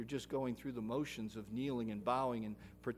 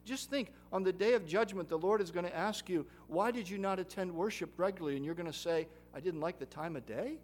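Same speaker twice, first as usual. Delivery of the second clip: raised, higher voice for judgment day; dramatic warning; 4 semitones higher, 5 dB louder than usual. Acted. Preacher warning of the Lord's question, loud and urgent. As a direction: paint the scene with urgency.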